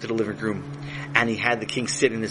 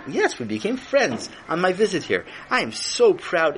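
proud lofty king; 8 semitones higher, slower than usual. Acted. King speaks grandly.

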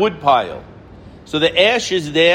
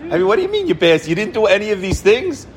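much higher, disbelieving what he hears; incredulous; 3 semitones higher, faster than usual. Retold or imitated. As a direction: react as if it cannot be true. Father incredulous at daughter passing.

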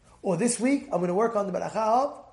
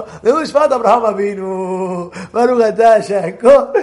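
mocking heckler; 9 dB louder than usual. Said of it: "one guy in the crowd".

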